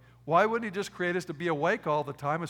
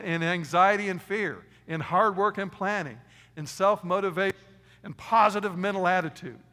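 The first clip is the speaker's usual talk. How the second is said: louder and higher, listing the wrong ways; emphatic contrast; 4 semitones higher, 9 dB louder than usual. Real, not acted. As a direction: punch out the false list. Mocking the wrong advice.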